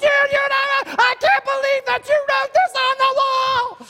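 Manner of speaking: high, loud, slow, furious yelling. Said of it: "When they get angry, they get really loud".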